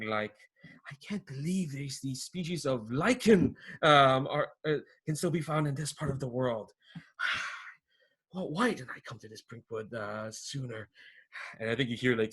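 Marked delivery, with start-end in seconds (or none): 0.9-10.9 excited exclaiming. Acted. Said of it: "you hear him exclaiming".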